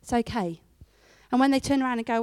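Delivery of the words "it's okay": calm reassurance. Retold or imitated. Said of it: "sit back and relax and go".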